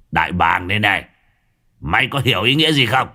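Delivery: a swaggering village thug boss, scornful; lightly voiced boss, sneering at old Tú. Gang boss mocking old Tú to his underlings, scornful. Long shows his eagle tattoo.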